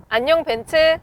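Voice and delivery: loud clear wake word; talking to voice assistant. Real, not acted. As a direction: call the car assistant aloud. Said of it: "또 하나 물어볼게요".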